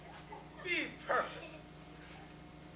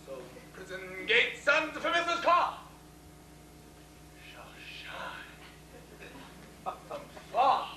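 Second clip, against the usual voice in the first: slow bombastic tyrant ranting; lofty ranting; slower than usual. Acted. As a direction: rant it grandly, dropping to whispers. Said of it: "This is lofty".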